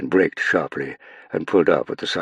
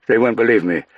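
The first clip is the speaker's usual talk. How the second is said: distressed outburst; 7 semitones higher, 7 dB louder than usual. Acted. Playfair arrives with bad news.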